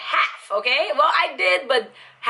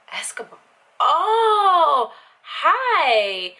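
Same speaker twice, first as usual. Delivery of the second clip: high, louder startled greeting; flustered ex; 8 semitones higher, 5 dB louder, much slower than usual. Retold or imitated. Ex-girlfriend recognizing the name, startled then friendly. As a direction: caught off guard, then sweetly friendly. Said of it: "She's like".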